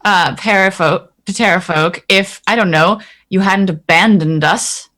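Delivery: lightly voiced, mildly indignant character; in-character reproach. Player's character reproaching Azaka for leaving them, mild reproach.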